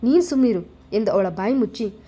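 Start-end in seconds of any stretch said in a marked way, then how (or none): 0.0-0.6 snapping. Acted. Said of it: "ರೇಗಿ ಬಿಟ್ಟಳು Dhriti".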